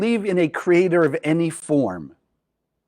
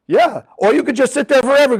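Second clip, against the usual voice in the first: whisper; 8 semitones higher, 4 dB louder than usual. Real, not acted. Aside to the class.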